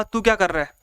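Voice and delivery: mildly angry demo of a rude question. Shown as a demonstration. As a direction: snap it like a scolding teacher. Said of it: "ये गुस्से में बोल रहा है".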